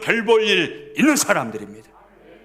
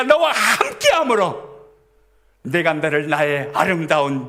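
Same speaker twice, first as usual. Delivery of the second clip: higher, slow and tender, a loving promise; voicing God tenderly; 3 semitones higher than usual. Preacher voicing God's promise to the congregation, tender and slow. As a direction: speak God's words to His beloved as a gentle promise. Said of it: "하나님이 말씀하시잖아요".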